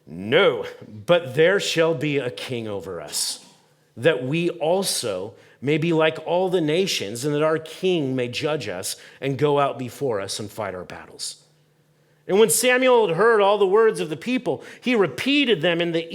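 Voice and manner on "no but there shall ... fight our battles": stubborn refusal. Retold or imitated. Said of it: "I don't know why I keep saying it like that".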